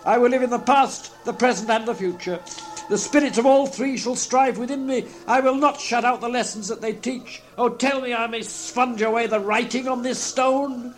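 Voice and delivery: high, fervent vow turning to begging; implore, pitch high all through; Scrooge, agonised entreaty. A narrator's reading. Scrooge entreats the phantom to spare him, agonised. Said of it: "In his agony".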